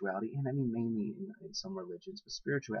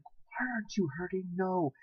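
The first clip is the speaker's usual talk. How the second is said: higher, incredulous retort; mock disbelief; 8 semitones higher than usual. Imitating own reply to hair-pulling girlfriend, mock disbelief.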